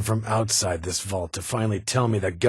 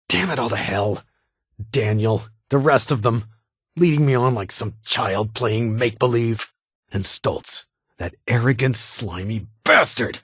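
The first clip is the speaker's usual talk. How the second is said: furious outburst; 2 semitones higher, 4 dB louder than usual. Acted. Leader cursing betrayal by Stoltz.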